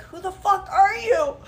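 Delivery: high, loud laughing alarm; alarmed outburst. Retold or imitated. Startled in her car by a waving stranger. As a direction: blurt it out half laughing.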